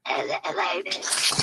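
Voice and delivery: raspy breathy whisper, barely voiced; hoarse after breathing tube. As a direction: voice wrecked from the breathing tube, slow. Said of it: "this is what I sound like".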